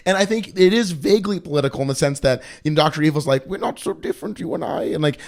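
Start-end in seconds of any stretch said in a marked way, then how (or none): 3.5-4.8 breathy sinister villain whisper; Dr. Evil voice. Retold or imitated. Doctor Evil quote, whispered.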